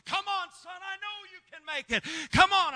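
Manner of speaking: a hint of a weeping mother; mother's plea. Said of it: "she's just weeping and crying".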